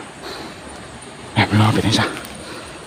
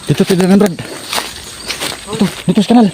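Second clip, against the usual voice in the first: calling out; 10 semitones higher, 5 dB louder, slower than usual. Acted. Calling friend down to canal.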